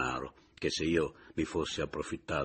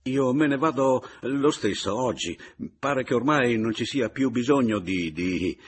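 louder, clipped with anger; angry; 6 semitones higher, 7 dB louder than usual. A narrator's reading. Papiano to Paleari, angrily turning away. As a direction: turn on them and spit it out. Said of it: "si voltò irosamente".

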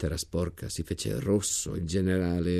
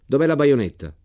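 stern officer's demand; 7 semitones higher, 9 dB louder than usual. Acted. General questions soldier in trench.

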